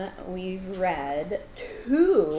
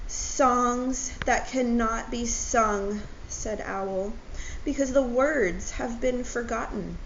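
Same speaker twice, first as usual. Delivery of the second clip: sad Owl; 4 semitones higher than usual. Acted. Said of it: "His eyes began to water".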